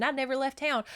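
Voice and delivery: mildly scornful echo of an accusation; mocking repetition. Retold accusation before rebuttal.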